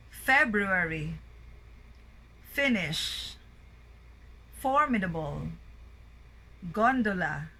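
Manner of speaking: isolated words, strong start, falling tail, long gaps; word-list drill, first syllables stressed like DOR in dormitory. Shown as a demonstration. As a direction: drill "dormitory" through "impious", each opening syllable strong. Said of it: "Words with a primary stress on the first syllable".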